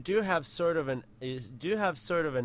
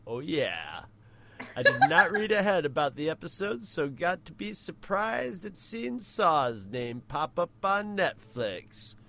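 regular guy voice; 4 semitones higher than usual. Retold or imitated. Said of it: "in just a regular guy voice".

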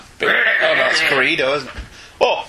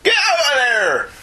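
higher, indignant Northern English Vader; 10 semitones higher than usual. Retold or imitated. Vader catches intruders on his Death Star in a Northern accent. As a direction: scold the intruders like an angry Northern farmer.

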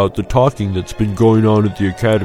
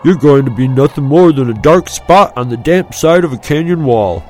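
higher, emphatic warning; cautioning friend; 5 semitones higher, 5 dB louder than usual. A narrator's reading. Friend warning Luke of a fatal crash, cautioning. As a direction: drive the grim warning home. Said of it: "his friend cautioned".

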